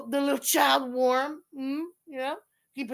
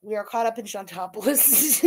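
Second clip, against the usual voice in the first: put-on Coronation Street accent; 4 semitones lower than usual. Streamer repeating her line for laughs, mock British accent. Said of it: "it's Coronation Street".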